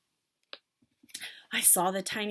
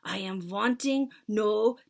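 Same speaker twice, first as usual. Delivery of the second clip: shouting; 5 semitones higher, 8 dB louder than usual. Acted. Witch leader shouting at her followers, loud. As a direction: bellow with contempt. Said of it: "shouted the Grand High Witch".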